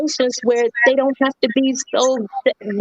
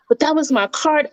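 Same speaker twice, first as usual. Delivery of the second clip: retold yelling; 6 semitones higher than usual. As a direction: imitate an upset shopper's protest. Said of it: "she was yelling at me and talking crazy".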